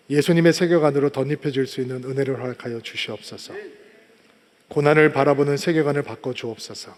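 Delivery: low, solemn prayer voice; closing prayer. Real, not acted. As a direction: lead the congregation in low-pitched prayer.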